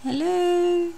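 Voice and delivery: high playful hello; silly high hello. Real, not acted. Greeting camera as it focuses.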